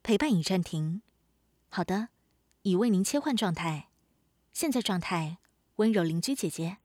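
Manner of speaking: even, polite automated assistant voice; smart speaker. Acted. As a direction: read it like a voice assistant announcing modes.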